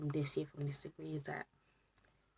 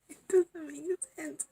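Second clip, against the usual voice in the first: disbelief; 10 semitones higher, 5 dB louder, slower than usual. Real, not acted. Stunned at being finished.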